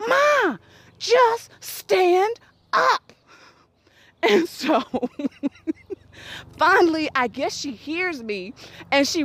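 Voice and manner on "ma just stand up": drawn-out plea. Retold or imitated. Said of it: "all I kept on was".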